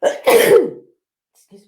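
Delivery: just after a sneeze; catching breath after sneezing; sneezy. Real, not acted. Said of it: "I'm sneezing".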